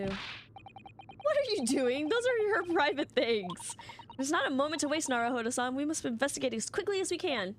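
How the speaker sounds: urgent character voice; indignant game assistant. Acted. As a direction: protest at the snooping. Reads the game dialogue aloud.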